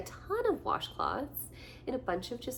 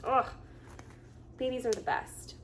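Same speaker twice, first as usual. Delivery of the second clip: ordinary delivery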